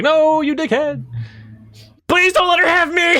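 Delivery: high, squeaky, desperate begging; pleading sword voice. Acted. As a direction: beg like a terrified little sword. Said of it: "and he's like".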